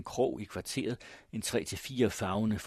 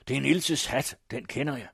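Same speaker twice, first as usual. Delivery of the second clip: raised, insistent cry of recognition; Morten Bruus; 6 semitones higher, 6 dB louder than usual. A narrator's reading. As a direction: call it out loudly, then ease slightly. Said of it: "skreg Bruus".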